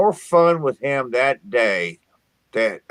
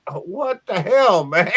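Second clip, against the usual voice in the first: laughing retort; 3 semitones higher, slower than usual. Retold or imitated. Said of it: "And I'm like".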